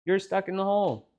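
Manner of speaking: high, squeaky surprised little voice; a small creature finding someone stuck; mouse voice. Acted. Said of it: "he's like".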